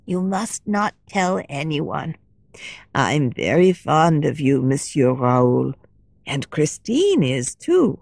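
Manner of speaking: a lightly voiced kindly old lady, hushed; gentle old lady sharing a secret; old woman.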